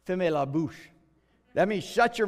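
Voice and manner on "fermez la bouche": "Fermez la bouche" said in French, as a polite joke. Shown as a demonstration. Pastor softens shut up for his church, in French. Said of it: "I'm gonna say it in French".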